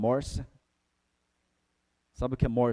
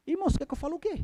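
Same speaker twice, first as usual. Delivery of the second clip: much higher, mocking; ironic retort; much faster than usual. Real, not acted. Preacher answering members who call him too harsh, mocking and high. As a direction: toss the question back with a laugh.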